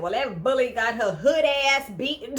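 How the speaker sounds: can't get it out for laughing; giggling while retelling the line; laughing through it. Real, not acted. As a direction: quote broken up by real laughter. Laughing while quoting Hannah.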